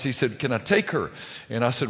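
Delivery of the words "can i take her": quick, hurried mock teen question; hurried-up voice of a nervous suitor. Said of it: "in a very hurried up voice".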